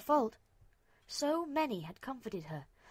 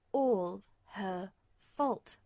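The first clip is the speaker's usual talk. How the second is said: anguished; 5 dB louder, much slower than usual. A narrator's reading. Self-blame drawn out.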